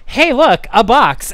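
high, bright "hey look" call; mock excited call. Fursuiter spotting the box, mock excited call. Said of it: "other fursuit was like".

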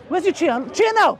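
taunting dare. Real, not acted. Taunting the opponent's supporters.

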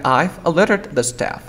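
"alerted" said without its T. Shown as a demonstration. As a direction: model sentence with "a-ler-ed". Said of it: "Voy a pronunciar".

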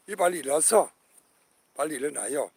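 calling out loudly to sleeping comrades; rousing call to get up; loud wake-up call. Real, not acted.

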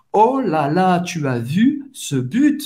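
drawn-out amazed question about a goal; demonstrated fan's wonder; excited. Shown as a demonstration. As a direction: marvel slowly, stretching "vu ce but". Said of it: "mais você tá empolgado".

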